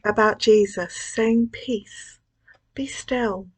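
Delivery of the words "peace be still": soft, voiceless whisper; calming yourself amid deadlines, in a whisper. Acted. Speaker repeats it to herself.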